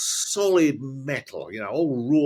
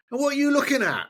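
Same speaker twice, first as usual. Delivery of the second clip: high screechy heckler impression; screeching woman; faster than usual. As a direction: screech it high, imitating an angry fan. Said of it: "she is screeching right behind us".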